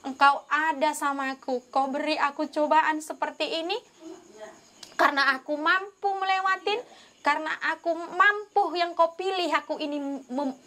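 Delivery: an earnest, insistent retold prayer; prayerful crying out. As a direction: call on God earnestly, retelling a prayer. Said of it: "aku berdoa berseru sama dia".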